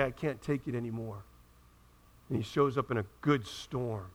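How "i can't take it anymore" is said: much softer, low, spent; exhausted sigh. Retold or imitated. A worn-out believer telling God they are done, soft and low. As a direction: let it fall out defeated. Weary soul giving up.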